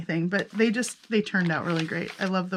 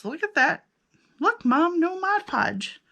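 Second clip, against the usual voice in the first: mock childish brag; 8 semitones higher than usual. Proudly bragging like a child.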